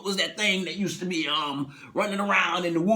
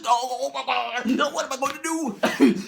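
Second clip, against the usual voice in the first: mock panic; 6 semitones higher than usual. Passenger panicking at the window. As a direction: wail it out in a panic. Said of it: "and he's".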